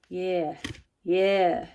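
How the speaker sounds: building excitement. Real, not acted. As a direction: swell into a delighted yes.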